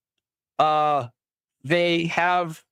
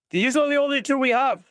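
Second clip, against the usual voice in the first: captive voice; 9 semitones higher than usual. Acted. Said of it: "they're like".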